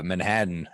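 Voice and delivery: Manhattan said with a D in place of the T; New York pronunciation. Real, not acted. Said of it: "I'm seeing Manhattan with a D with my dumb fucking New York accent".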